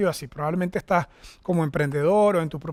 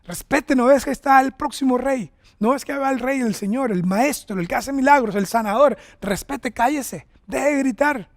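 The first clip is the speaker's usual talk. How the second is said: higher-pitched telling-off, lightly acted; mock scolding; 4 semitones higher than usual. Preacher voicing officials hushing the blind man, mock scolding. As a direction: scold in a playful, put-on way. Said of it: "Comenzaron a regañar al ciego".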